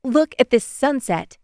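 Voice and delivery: put-on high, eager girl's voice; excited showing-off. Bailey showing Amaya the sunset on screen, excited. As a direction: eagerly show off the view. Girl shows her friend the sunset.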